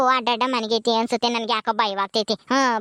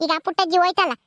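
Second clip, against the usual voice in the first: higher, brisk village woman brushing off worry; 5 semitones higher than usual. Acted. Gauri telling her worried husband not to fuss, lively. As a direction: shrug off his panic, lively and sure.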